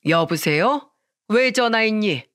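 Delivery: mildly curt phone answer. Acted. Mother-in-law answers her daughter-in-law's call, lightly curt. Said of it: "퉁명스럽게 전화를 받더라고요".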